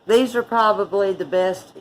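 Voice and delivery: talking through a mouthful; words round a bite of roll; mouth full. Real, not acted. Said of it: "talking with my mouth full".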